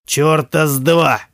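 rough interruption. Acted. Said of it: "грубо оборвал её отец".

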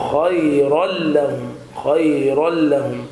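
خيرا لهم slowly as "khayral-lahum", no n; correct merging. Shown as a demonstration. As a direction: melt the tanween into the ل of لهم. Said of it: "الصواب".

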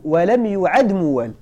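slow, deliberate "yu'ad" for يعد; passive with ya. Shown as a demonstration. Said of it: "نقراوه بالبناء للمجهول مع التحتية".

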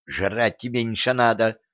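cross, hushed scolding; angry hiss. Acted. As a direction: snap at him under your breath. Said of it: "сердито шикнула на него девица".

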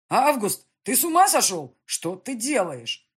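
loud, high alarmed shout; shouting prince. A narrator's reading. Prince shouts at the colonel to stop. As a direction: yell at him to come to his senses. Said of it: "кричал князь".

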